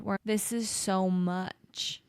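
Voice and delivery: slow, worn-out admission; overwhelmed, slowing down. Real, not acted. Mother telling friend it's all too much, slow and weary. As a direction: let the words sag under the weight. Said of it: "feeling very raw and emotional".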